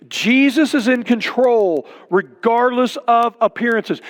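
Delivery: slowed restatement with "Jesus" leaned on. Shown as a demonstration. Pastor repeating his point to the church, slow and deliberate. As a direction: say it again slowly so it sinks in. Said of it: "Don't miss what it says".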